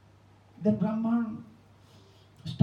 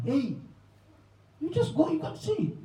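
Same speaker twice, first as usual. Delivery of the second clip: excited news; 8 semitones higher, 5 dB quieter than usual. Retold or imitated. Visitors calling out news.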